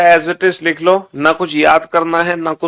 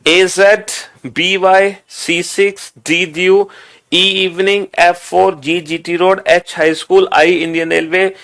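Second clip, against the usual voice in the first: chant-like memorization drill; projected teacher's rote recitation; recite out loud. Shown as a demonstration. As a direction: run through the list aloud, item after item. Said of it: "जोर जोर से बोल के".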